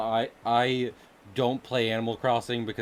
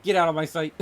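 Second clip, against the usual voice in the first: hammed-up, raised mock ultimatum; mock threat; 6 semitones higher than usual. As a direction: deliver a playful, over-the-top threat. Mock villain threat to the droplets.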